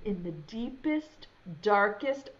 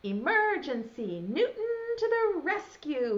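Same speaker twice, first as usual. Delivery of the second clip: rising heroic call; 5 semitones higher than usual. Acted. Newton calling out as rescuer. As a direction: announce the rescue like a hero. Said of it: "he called".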